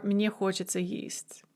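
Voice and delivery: soft unvoiced whisper of мне хочется есть; hushed repeat of мне хочется есть. Shown as a demonstration. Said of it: "teacher repeats phrase whispered".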